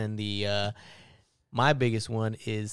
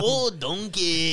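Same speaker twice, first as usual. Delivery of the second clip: put-on slow, drawn-out Mexican accent; 6 semitones higher, much slower than usual. Mimicking the donkey in a Mexican accent. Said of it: "Mexican voice?".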